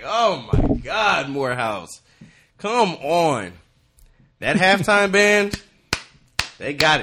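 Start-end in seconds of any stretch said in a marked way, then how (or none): 0.0-3.5 exasperated groan. Retold or imitated. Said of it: "I'm like".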